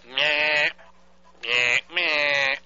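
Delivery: nasal meh meh beeps; imitated busy signal. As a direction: mimic a broken busy tone. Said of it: "it goes like this".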